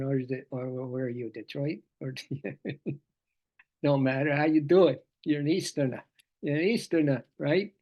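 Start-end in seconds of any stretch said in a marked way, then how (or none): 4.3-5.0 put-on New Jersey accent. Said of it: "being a Jersey guy for so long".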